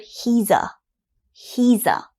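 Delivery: "He's a" run together into one sound; linked as one word. Shown as a demonstration. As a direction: blend "He's a" smoothly. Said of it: "again sounds like one word".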